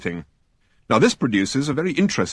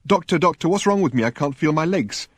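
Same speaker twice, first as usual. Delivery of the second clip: mild patient voice; 6 semitones higher than usual. Acted. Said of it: "he says to the doctor".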